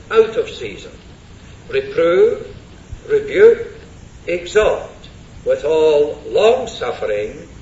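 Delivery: measured, solemn reading of the text; formal Bible reading; scripture reading. Acted. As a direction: read the verses aloud with weight. Reads the charge from scripture.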